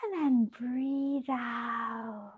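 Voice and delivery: soft, slow breathing guidance; quiet yoga cue; calm breathing cue. Shown as a demonstration. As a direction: guide the breath gently. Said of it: "One more time".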